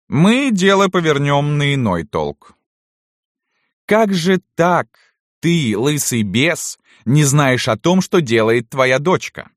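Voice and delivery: high, loud, drawn-out cross-questioning; menacing mistress. A narrator's reading. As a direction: turn on the old servant, weighing each word. (властная барыня, громко, с растяжкой)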